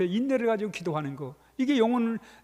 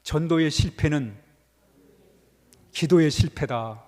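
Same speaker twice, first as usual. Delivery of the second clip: slow recitation; 6 semitones lower, 3 dB louder, slower than usual. Shown as a demonstration. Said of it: "한번 따라합니다".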